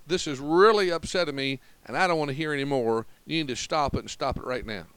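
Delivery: mild mock telling-off, speeding up; understated displeasure, putting a stop to it; acted upset rebuke. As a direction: act fed up, starting firm then rattling it off. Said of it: "we should have that look".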